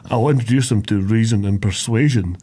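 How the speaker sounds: lightly voiced Sean Connery, low Scottish purr; mild Sean Connery Scottish accent; Sean Connery impression. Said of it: "making Shrek there sound like Sean Connery".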